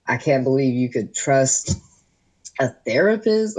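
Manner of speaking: lightly voiced shocked father; upset dad. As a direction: mimic dad, scandalized at the end. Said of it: "he was like".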